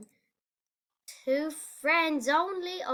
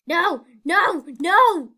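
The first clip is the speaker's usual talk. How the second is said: high, louder with each no; rising shouts; 5 semitones higher, 11 dB louder, slower than usual. Real, not acted. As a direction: shout no, building each time. Failing the jump.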